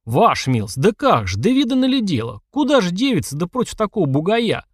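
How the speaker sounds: high, swooping wail of dismay; flustered protest. A narrator's reading. Organiser objecting to a girl fighting a brute, flustered and high. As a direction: protest in rising, pleading disbelief.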